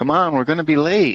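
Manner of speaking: eager nasal voice, very high and loud. Narrating a voice calling from the connected bathroom: nasally, high-pitched, excited voice. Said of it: "Bit nasally, high pitched, excited".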